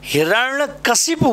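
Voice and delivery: हिरण्यकशिपु said syllable by syllable, clearly; teacher modelling हिरण्यकशिपु for students; careful pronunciation. Shown as a demonstration. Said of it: "इसका जो बोलने का pronunciation है वो हमें ठीक रखना है".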